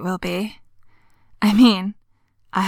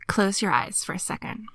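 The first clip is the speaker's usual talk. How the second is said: soft whispered request; 7 dB quieter than usual. Acted. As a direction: breathe the words gently. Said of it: "No, I mean it".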